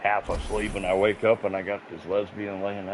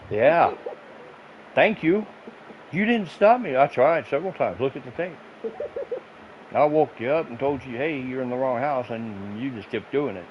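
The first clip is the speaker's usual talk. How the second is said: loud, high, exasperated; mock indignant yell; 5 semitones higher, 5 dB louder than usual. Man reminding the drunk neighbor he tried to stop her, raised voice. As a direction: throw it back at her with a raised voice.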